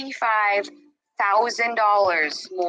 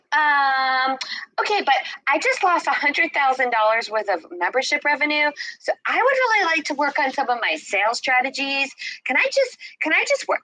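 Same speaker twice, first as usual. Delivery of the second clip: higher, pleading, whiny self; 5 semitones higher than usual. Retold or imitated. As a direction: beg like a worried child, voice climbing. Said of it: "And I'm like".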